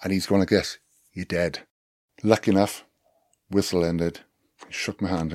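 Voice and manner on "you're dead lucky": brief threat in a roughly imitated South African accent. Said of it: "not really good at doing a South African accent".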